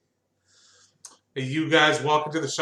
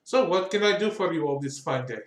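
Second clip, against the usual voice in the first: a hint of a gushing shopkeeper; pleased and sly, to his customers; lightly voiced fawning craftsman; doll maker Altus. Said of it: "It's like".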